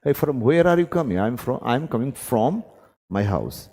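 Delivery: slow, spelled-out example English; slow demo dialogue. Shown as a demonstration. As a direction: model the exchange slowly for students. Teacher acts out dialogue.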